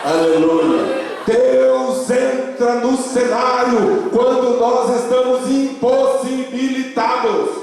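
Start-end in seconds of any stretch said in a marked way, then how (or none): 1.2-7.5 high, sustained, chant-like proclamation; fervent preaching. Real, not acted. Pastor tells the congregation God steps in, high fervent proclamation. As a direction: ride high on one note, stretching it out.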